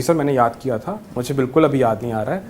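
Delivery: retold gentle apology to sir; gently, lovingly. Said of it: "मैंने प्यार से बोला कि".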